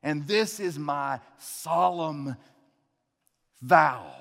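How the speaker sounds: saying wedding vows. Pretend. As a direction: recite vows with reverence. Officiant leads couple's vows.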